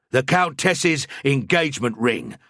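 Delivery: controlled, carefully measured proclamation. A narrator's reading. Priest showing the ring to the watchman, carefully measured. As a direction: time it against the prayer. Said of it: "measuring my voice carefully".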